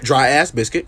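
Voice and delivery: "ass" leaned on within "Dry ass biscuit"; stress on ass. Acted. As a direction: put the weight on "ass". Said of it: "No, see, you doing it again".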